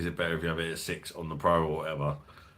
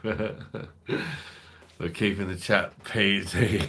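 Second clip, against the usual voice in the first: drawn out slowly, each word stretched; mock-solemn promise; 4 dB louder, much slower than usual. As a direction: mockingly repeat the warning, very slowly. Mocking the YouTube warning.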